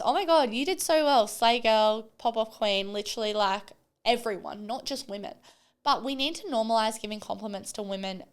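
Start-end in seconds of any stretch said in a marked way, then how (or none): 0.0-2.9 gushing hype. Retold or imitated. Hyping up a coworker with girly compliments, gushing. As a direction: gush over her like her biggest fan. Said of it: "I am the biggest".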